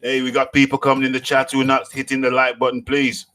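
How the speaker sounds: ordinary delivery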